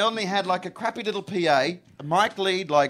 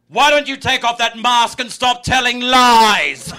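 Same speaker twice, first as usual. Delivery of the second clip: slow, loud, higher mock hippie woman; hippie heckler; 5 semitones higher, 8 dB louder, slower than usual. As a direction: call it out like an earnest hippie heckler. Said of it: "hippie woman runs to the front of the stage and goes".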